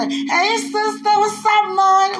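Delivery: high, loud happy hello; excited greeting. Pretend. Fan greeting his sister and mom, high and loud. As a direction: greet them like old friends. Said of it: "you have a sister".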